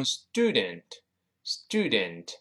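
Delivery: "student" the American way, u changed; American accent. Shown as a demonstration. Teacher imitates American "student", American accent. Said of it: "美国人读成".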